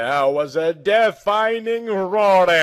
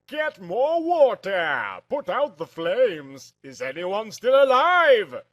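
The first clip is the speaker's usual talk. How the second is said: shouting; 5 semitones higher than usual. Acted. Vikings shouting during fire.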